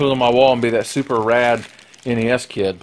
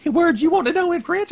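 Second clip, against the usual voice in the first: much higher, fast mimicking teacher; French teacher; faster than usual. High school French teacher asking the class, mimicked high voice. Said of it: "the teacher was like".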